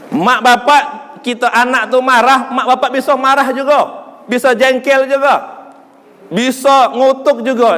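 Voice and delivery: forceful listing, phrase by phrase; emphatic preaching. Real, not acted. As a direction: hammer each point from the pulpit. (ceramah tegas penuh tekanan)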